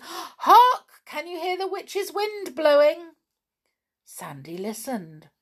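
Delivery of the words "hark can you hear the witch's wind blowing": high, loud pixie alarm; startled, high-pitched cry to listen; urgent warning. A narrator's reading. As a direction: call out a sudden warning. Pixie warns of approaching witches' wind.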